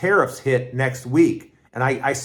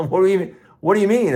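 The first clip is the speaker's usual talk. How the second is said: shocked disbelief; 5 semitones higher, 4 dB louder, much faster than usual. Retold or imitated. Stunned at women never approached.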